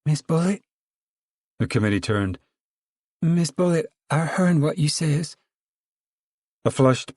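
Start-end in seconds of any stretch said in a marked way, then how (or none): 0.1-5.4 high, whining timid woman. A narrator's reading. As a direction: plead in a thin high whine. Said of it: "came a whining voice".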